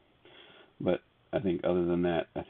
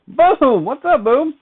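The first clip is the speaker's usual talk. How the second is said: loud, high, excited greeting; excited shout; 11 dB louder, slower than usual. Real, not acted. Streamer shouting hello to a viewer, loud and high. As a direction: call the name out with a big burst.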